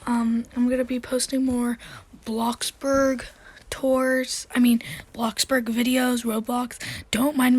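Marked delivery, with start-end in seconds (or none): 2.2-4.5 whispering. Real, not acted. Whispered aside mid-sentence.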